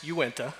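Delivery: Uinta said slowly as you-IN-tuh; brand pronunciation demo. Shown as a demonstration. Brewery marketer teaching the audience the brand name, Uinta pronounced you-IN-tuh. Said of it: "by the way, it's pronounced".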